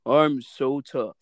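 slow, lightly mocking tough guy; macho man act. Mocking people who put on a macho act, slow boast. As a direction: drag it out as a mock macho boast. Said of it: "put on this macho man act".

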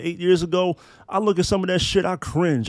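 ordinary delivery

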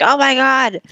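high, loud "Oh my God"; shocked. Retold or imitated. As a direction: gasp it out, caught out and high. Chandler realizes wrong sister.

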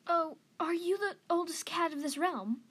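put-on light, high young cat; curious young cat. A narrator's reading. Young cat asking the oldest cat, curious and high-voiced.

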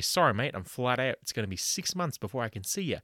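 mock receptionist. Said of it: "have the cheeky bugger say".

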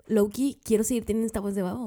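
hoarse from a sore throat; raspy, strained voice. Real, not acted. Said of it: "no sé qué está pasando con mi garganta".

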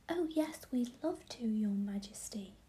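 fairies bubbling with excitement; excited. Acted. Fairies answer the Queen eagerly, excited whisper. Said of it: "answered all the fairies in great excitement".

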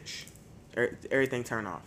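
soft, quick hushed order; hushing. Retold or imitated. Telling mom to turn everything off so they can hear the mice, hushed and quick. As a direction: shush everyone to listen.

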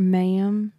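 West Texas drawl stretching "Ma'am"; West Texas accent. Retold or imitated. Imitating Jasper's storytelling, West Texas accent. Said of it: "That's a West Texas accent".

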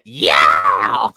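shouted Yeah sound effect; sound effect yell. Pretend. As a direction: belt it out like a show's sting. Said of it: "we just need the sound effect".

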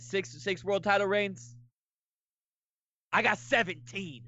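cocky heel wrestler taunting the crowd; trash-talk the booing fans like a heel; wrestling promo. Pretend. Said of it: "cut your promo".

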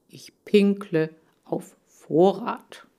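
slow, deadpan whisper. Acted. Lee answers Chan's silly question in a dry whisper. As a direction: whisper it dryly.

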